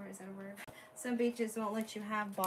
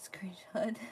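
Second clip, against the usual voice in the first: whispering. Real, not acted. Quietly noting a buyer's screenshot.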